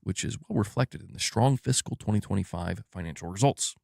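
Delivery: lightly voiced soft-spoken executive; a hint of a corporate executive impression, kept low; Herman Hulst. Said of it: "doing a Herman Hulst impression".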